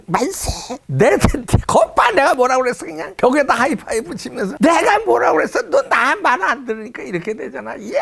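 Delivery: high, loud gleeful shouting; mock gleeful cheering. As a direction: crow with glee, hammed up. Imagined cheering in the shower. (신나서 환호하는 흉내)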